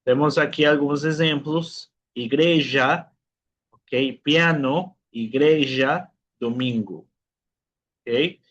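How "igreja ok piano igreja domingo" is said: igreja, piano, domingo with a clear Spanish I. Shown as a demonstration. Teacher giving students examples of the vowel I, Spanish-like I in igreja, piano, domingo. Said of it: "Es el mismo sonido que en español".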